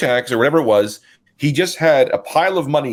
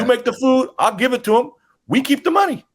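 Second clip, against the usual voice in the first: conspiring cashier; 12 semitones higher than usual. Retold or imitated. Cashier talks cook into scheme.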